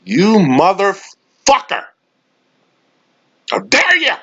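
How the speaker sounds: very high, slow, hammed-up outrage; a squealing, offended Skip Bayless; mock outraged Skip. Skip scolding Kawhi for whistling, very high mock outrage. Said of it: "Skip Bayless turned around and said".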